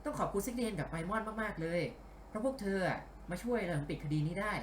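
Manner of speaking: lightly put-on female voice; Sango. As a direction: dub it as a woman, slightly lifted. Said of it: "ไม่ใช่เสียงซังโงะ ทำไมพากย์เสียงผู้หญิง". (พากย์เสียงผู้หญิงเบาๆ)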